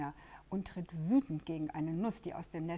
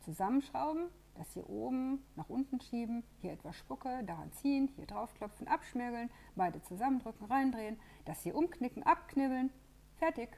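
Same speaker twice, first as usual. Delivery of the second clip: eager; 6 semitones higher, 5 dB louder than usual. Acted. Pino rattles off building steps.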